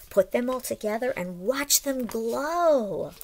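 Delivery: lively storybook read-aloud; reading to children. A narrator's reading. Teacher reads the story aloud to the class, lively storybook voice. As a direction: read it like a picture book to little ones.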